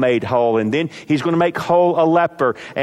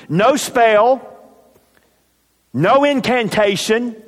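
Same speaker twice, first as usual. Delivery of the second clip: rising emphasis; 7 semitones higher, 3 dB louder than usual. Real, not acted. Mocking ancient diviners' rituals.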